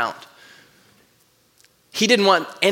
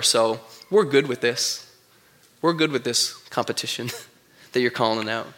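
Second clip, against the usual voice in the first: low, smug, chuckling reply; lightly voiced mocking prophets, laughing it off; smug prophets of Baal; 5 semitones lower than usual. Baal's prophets scoff at Elijah's fire challenge, low and smug.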